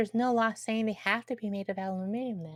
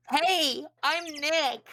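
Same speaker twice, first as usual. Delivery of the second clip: a bit louder and higher, calling out; raised voice; 6 semitones higher, much slower than usual. Acted. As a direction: say it up so the device hears. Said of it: "Maybe I'm not saying it loud enough".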